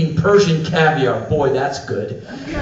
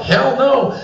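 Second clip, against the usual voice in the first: high, forceful mimicry; emphatic denial; 8 semitones higher, 4 dB louder than usual. Iranian guests deny voting for their president, emphatically. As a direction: reject it outright, pitch raised.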